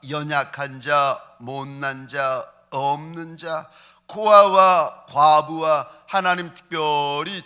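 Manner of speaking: slow, earnest prayer voice; closing prayer. Acted. Pastor leads the congregation in closing prayer, slow and earnest.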